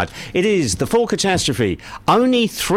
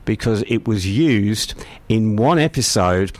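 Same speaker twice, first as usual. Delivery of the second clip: embarrassed whisper; 6 semitones lower than usual. Real, not acted.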